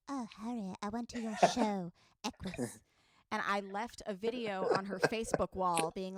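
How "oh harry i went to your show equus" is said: Moaning Myrtle. Acted. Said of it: "We'd be like".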